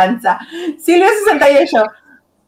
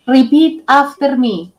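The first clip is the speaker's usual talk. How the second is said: velvet teacher voice; 2 semitones lower, slower than usual. Shown as a demonstration. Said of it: "con voz aterciopelada".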